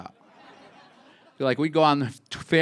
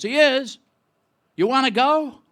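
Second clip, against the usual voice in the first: higher, louder eager question from dad; 12 semitones higher, 8 dB louder than usual. Retold or imitated. Dad offering his son a concert, high eager voice. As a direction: jump in keen to take the boy along. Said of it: "My dad goes".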